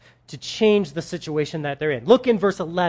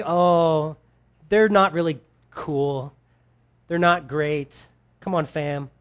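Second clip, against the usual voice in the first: lower, halting mock passive-aggressive grumble; 4 semitones lower than usual. Preacher imitating what God is not saying, passive-aggressive. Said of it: "He's not, like, being passive aggressive".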